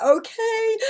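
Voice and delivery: put-on high squeaky laughing teen okay; hammed-up teenage okay; mock teen reply. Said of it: "they used to be like".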